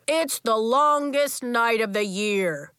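loud, slow booming voice. Acted. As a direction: boom it to the whole gym. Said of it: "Coach boomed".

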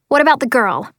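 sharp, insistent question; demanding. Acted. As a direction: demand an answer. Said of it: "I demand".

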